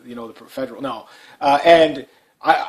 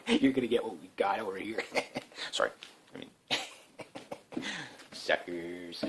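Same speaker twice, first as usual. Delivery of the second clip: much softer, laughing gloat under the breath; laughing aside; 7 semitones lower, 14 dB quieter than usual. Real, not acted. Teasing other provinces about what's coming, laughing softly. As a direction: chuckle it to yourself.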